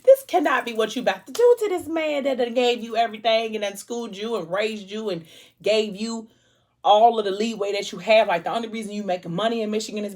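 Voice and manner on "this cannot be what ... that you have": high, loud desperate pleading; pleading with Jesus. Retold or imitated. Reader begging the character not to betray him, pleading high and loud. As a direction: beg him not to do it, voice climbing. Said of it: "I was holding my breath like".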